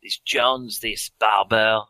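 put-on thick French accent, lightly done. Swedish seer warning Professor Perrin, in a light French accent. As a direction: lean into a French seer's vowels. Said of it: "I've got a very French now".

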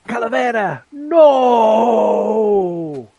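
put-on shouted plea in a Mexican accent. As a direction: call him off, Mexican accent. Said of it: "you notice it's in a Mexican accent".

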